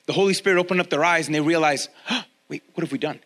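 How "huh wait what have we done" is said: stunned realization. Retold or imitated. Church realizing its wrong.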